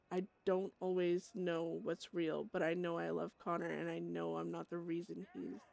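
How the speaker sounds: quiet, troubled inner monologue; Beth's inner voice. Acted. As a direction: murmur the character's guilty thoughts to herself.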